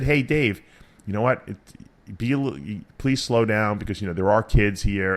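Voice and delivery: mild, softened polite request; nice way. Acted. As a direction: ask gently, like a considerate neighbor. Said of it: "like, in a nice way".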